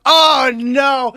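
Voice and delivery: high, loud retold cry of dread; exasperated outburst. Nephew retelling his reaction to uncle's rant, exasperated outburst. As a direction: wail it in mock exasperation.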